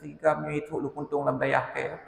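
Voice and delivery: high, stern scolding of a stranger; a hint of an angry host about to scold; rising stern voice. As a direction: start to tell him off, voice climbing. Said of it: "intonasi suara saya sudah mau naik".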